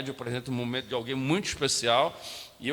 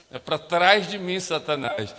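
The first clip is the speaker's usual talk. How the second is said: mock rebuke; 5 dB louder, slower than usual. Rebuking Satan in the retold moment.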